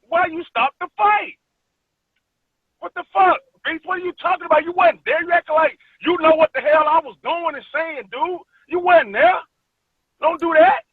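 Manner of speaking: mock yell at the referee, replaying it; retold angry protest. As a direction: fighter reenacting his protest to the referee, heated. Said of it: "turned around to the ref and I said".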